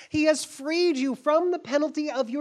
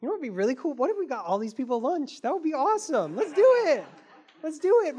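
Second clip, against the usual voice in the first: enthusiastic; faster than usual. Retold or imitated. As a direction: pitch a fun idea with delight. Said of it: "Jesus is like".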